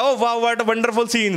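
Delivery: very slow, drawn-out mock wonder; imitating teacher's gushing delight. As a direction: stretch each word like an over-thrilled teacher. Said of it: "फिर उसके बाद Julius के घर पे बालक हो गया".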